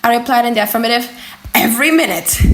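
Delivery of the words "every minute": a touch of heated scorn from the professor; lightly voiced, mildly indignant professor; with warmth. Professor scolding the student over old books, mildly heated. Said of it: "continued Monsieur Comte with warmth".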